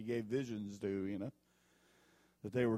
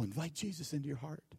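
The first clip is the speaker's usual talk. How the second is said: mock radio preacher; 4 semitones higher, 6 dB louder than usual. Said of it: "I hear these people".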